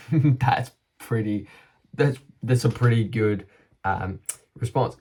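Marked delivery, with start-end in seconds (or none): 0.1-3.5 laughing. Real, not acted. Repeating his verdict on the sponsor money, amused. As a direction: chuckle while saying it.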